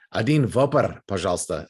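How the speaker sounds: "Whopper" as "voh-per" with rolled r; Russian pronunciation, imitated. Embassy person ordering a Whopper, imitated Russian pronunciation. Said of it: "embassy person s-, went".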